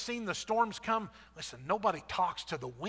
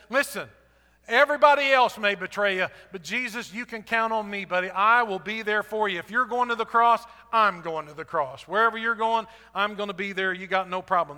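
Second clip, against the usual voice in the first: bold boast; 2 semitones higher, 7 dB louder than usual. Acted. Peter promising Jesus he'll never leave, louder bold bravado. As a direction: swear loyalty with puffed-up bravado.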